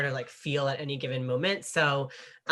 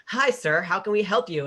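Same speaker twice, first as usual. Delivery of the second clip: higher, chirpy customer-service voice; imitated front-desk greeting, pitched up; hotel front desk; 5 semitones higher, 5 dB louder than usual. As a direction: play a polite receptionist answering the phone. Voicing hotel staff on phone.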